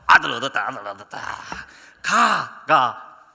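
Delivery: loud, drawn-out proud boast; proud father's shout. Retold or imitated. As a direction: shout it to the whole village like a proud new father. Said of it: "저희 아버지가 저를 낳으시고". (아들 얻었다고 자랑하는 아버지의 외침)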